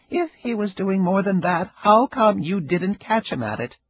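put-on old Ida, retorting. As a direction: snap his words back at him.

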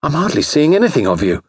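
high-pitched plaintive complaint; aggrieved, pleading young man; complaining. A narrator's reading. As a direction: complain with rising grievance. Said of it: "he complained".

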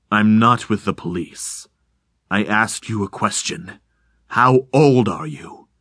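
slow, low stranger from the fog; deep insubstantial voice. Acted. Hidden stranger answers Rickert's cop question, slow and low. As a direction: speak deep but hollow, unhurried. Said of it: "sounding both deep and insubstantial".

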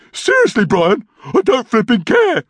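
high, irritated snap back; exasperated retort. A narrator's reading. Norm dismissing his brother's threat, exasperated.

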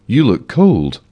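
repeated with extra concern. A narrator's reading. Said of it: "increasing the amount of concern".

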